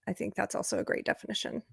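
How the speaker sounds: soft, unvoiced whisper; whispered aside. Real, not acted. Sudden hushed aside.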